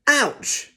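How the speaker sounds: mock cry of the squashed barge; moaning ouch. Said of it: "moaned Bulstrode".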